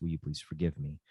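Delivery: soft humble request. Shown as a demonstration. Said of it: "I want them to use the phrase".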